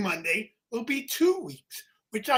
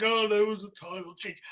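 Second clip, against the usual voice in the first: flat, bored mock delivery; 3 semitones lower, 5 dB quieter than usual. Mocking the co-host's flat delivery, bored. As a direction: mimic a dull monotone. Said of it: "You're like".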